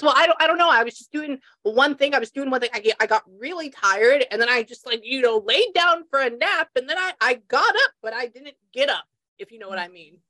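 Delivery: lightly voiced mother, animated and halting; a hint of the mother explaining herself; imitating the mother. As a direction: relay her rambling explanation, trailing away at the end. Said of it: "That's how she said it".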